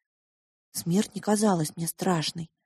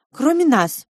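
objecting; 6 semitones higher, 8 dB louder than usual. Acted. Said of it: "возразила Маринка".

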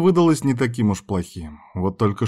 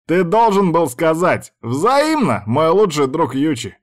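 mock lecturing; 6 semitones higher, 4 dB louder, slower than usual. A narrator's reading. Hamming buddy demanding affection.

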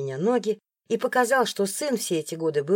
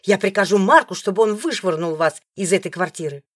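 threat; 5 dB louder than usual. Acted. Alisa's parting threat.

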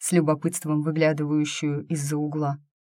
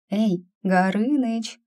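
slower, higher call to wake him; 5 semitones higher, slower than usual. Acted. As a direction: raise the voice to rouse a sleeper. Calling the dragon.

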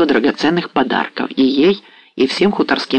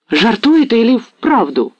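higher, slow, louder rapturous repeat; delighted; 9 semitones higher, 4 dB louder, slower than usual. A narrator's reading. Ostap repeating Mazepa's offer to himself, overjoyed. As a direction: savour the words in pure delight. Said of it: "повторял он в восторге".

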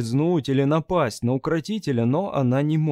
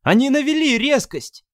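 shocked cry; 12 semitones higher, 5 dB louder than usual. Acted. Shocked cry about the focus.

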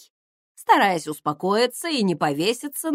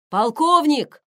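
calling out; 9 semitones higher, 7 dB louder, slower than usual. Acted. Subordinate calls out to colonel.

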